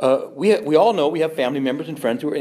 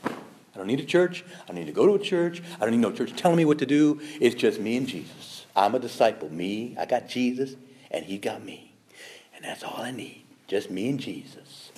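mocking a dismissive churchgoer. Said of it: "A lot of people say".

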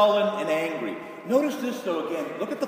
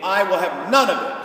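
defiant refusal; 7 dB louder than usual. Retold or imitated. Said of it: "He is saying".

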